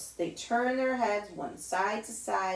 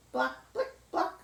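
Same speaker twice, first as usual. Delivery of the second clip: high heels clicking; 6 semitones higher than usual. Retold or imitated. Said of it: "The lady's heels go".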